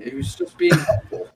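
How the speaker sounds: high, falsetto-like mock defence; mock innocent. Teasing cohost in a falsetto-like mock defence of the player. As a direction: play the wide-eyed innocent. Sarcastic joke about teammate's affair.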